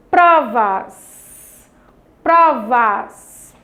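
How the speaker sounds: "Provas" said loud, PRO strongest; stress on strong syllable. Shown as a demonstration. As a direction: call out "Provas", leaning on the first syllable. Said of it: "Fale em voz alta essas palavras". ("Provas" em voz alta, com força no "Pro")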